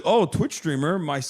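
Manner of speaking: inquisitive officer. Retold or imitated. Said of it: "Inquisitive motherfucker".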